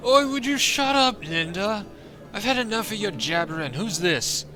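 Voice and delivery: put-on high, slow, slurred drunk yelling; drunk man. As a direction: play a sloppy drunk jeering at the dwarf.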